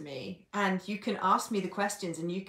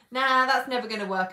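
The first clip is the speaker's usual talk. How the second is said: annoyed client; 4 semitones higher, 8 dB louder than usual. Retold or imitated. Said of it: "he was so annoyed".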